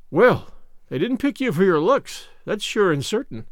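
firm emphasis on "looks"; emphatic. A narrator's reading. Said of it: "Missus Rachel Lynde's emphatic comment".

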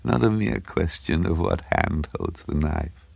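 high, stuttering, breathy voice; spluttering little man. A narrator's reading. Little man leaning to Craven, stuttering and spluttering. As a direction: splutter it out high, then settle. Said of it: "the little man turned and sprayed him".

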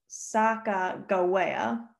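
Sacagawea as sah-kah-go-WAY-ah, hard G; hard G pronunciation. Shown as a demonstration. Host contrasting spellings of the name, Sacagawea with hard G. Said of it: "there's no soft Gs, it's only hard Gs".

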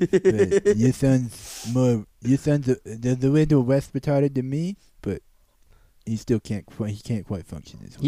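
halting put-on doctor voice; mock impaired doctor. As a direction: stumble through the bad news in character.

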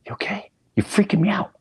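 high-pitched, uneasy check-in; nervous concern. Retold or imitated. Son to Dad lost in a flashback, nervous concern.

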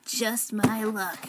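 imitating Lloyd. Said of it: "he, like, talks like this".

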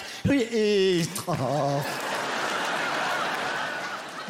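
long drawn-out worn-out wail; exhausted garbled noise. Acted. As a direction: let a worn-out wordless noise sag and trail off. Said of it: "Ten minutes later, you're like".

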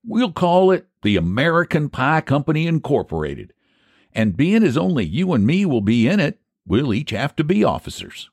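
high-pitched, lilting country schemer; folksy pie seller Phineas. Acted. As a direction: argue your case like a folksy pie man.

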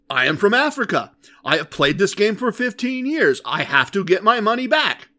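lightly voiced insistent gambler; earnest, pleading insistence; a hint of a desperate player; quoting the African player. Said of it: "he told us directly".

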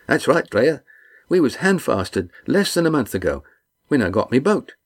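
a big man delighted to see friends; hearty fisherman. Acted. Red Ian greeting the crew, hearty and glad.

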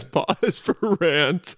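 slow, drawn-out announcement; title card read. Pretend. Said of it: "put up a title card that says".

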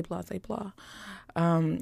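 ordinary talk, nothing marked

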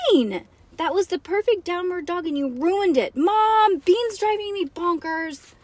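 high-pitched, dramatic complaint; exasperated sister. A narrator's reading. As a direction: wail to mom about your sister. Nancy quarrels, complains to mom.

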